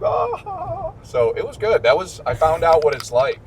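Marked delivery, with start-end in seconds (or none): 0.0-0.9 high drawn-out "ah", imitated; imitated fan cheer. Students reacting to his little wave, imitated high cheer. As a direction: mimic a far-off crowd's delight. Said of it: "and they were like".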